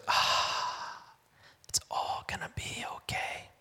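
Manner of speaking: breathy whisper of relief after a deep breath; relieved whisper. Retold or imitated. Servant sighing in relief as angels appear. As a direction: exhale it softly, all tension gone. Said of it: "takes that deep breath and goes".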